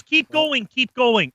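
high, coaxing keep going; mock coaxing. A host mimics the councillor coaching him, high and sly. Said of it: "She says".

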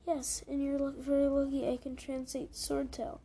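retort. Acted. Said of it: "she retorted".

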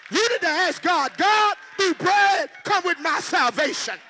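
loud, high, shouting climax of the sermon; fired-up preacher shouting at the congregation; shouted preaching. Acted. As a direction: preach it at full force to the crowd.

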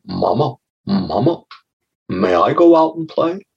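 a hint of an eager child asking mama; lightly voiced little frog. Little frog asks his mother.

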